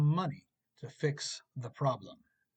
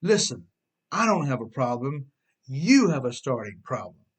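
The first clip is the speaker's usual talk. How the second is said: mock defiant insistence; emphatic; 5 dB louder than usual. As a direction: push the blame back, hammed-up. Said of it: "The car emphatically states".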